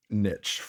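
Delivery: "niche" said as NITCH, short vowel; pronounced nitch. Real, not acted. Podcaster settling on a word, "niche" as NITCH. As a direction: say "niche" to rhyme with pitch. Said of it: "I'm saying niche".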